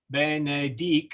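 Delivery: BENEDIC sounded out syllable by syllable, be-ne-dic; split consonants. Shown as a demonstration. Teacher showing where consonants split, "Benedic" in separate syllables. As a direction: break "Benedic" off at the C. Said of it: "we split it in half".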